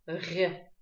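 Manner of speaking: softened Р with lips stretched; растянутые губы. Shown as a demonstration. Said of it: "у нас губы растягиваются". (мягкое «Р» с растянутыми губами)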